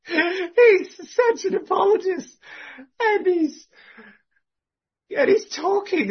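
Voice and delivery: high, slow, laughing through it; fond helpless laugh. Real, not acted. Laughing affectionately about the man.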